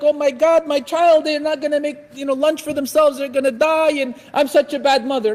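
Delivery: hammed-up motherly worry; fretting mother. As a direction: imitate an overwrought, guilt-ridden mom. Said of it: "don't cry and think like".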